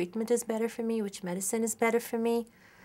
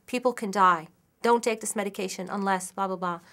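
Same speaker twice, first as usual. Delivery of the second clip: firm, raised-voice warning; alarming warning. Acted. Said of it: "an alarming, uh, sound and say".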